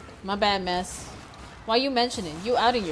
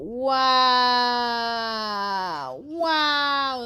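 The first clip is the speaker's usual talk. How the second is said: mock outrage. Real, not acted. Mock outrage at teammate's accusation.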